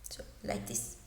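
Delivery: breathy unvoiced th shown between the teeth; teacher showing where the tongue goes; demonstrating th. Shown as a demonstration. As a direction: softly push air through the teeth for th. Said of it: "the tongue being between the teeth".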